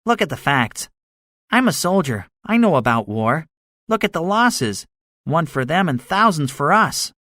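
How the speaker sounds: high-pitched soldier arguing his case; gunner, insistent. A narrator's reading.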